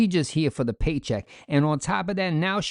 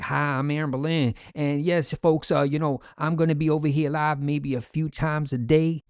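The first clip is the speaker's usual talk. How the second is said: flat, emotionless monotone imitation. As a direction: read it like a bored script, monotone. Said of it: "she had no emotion at all".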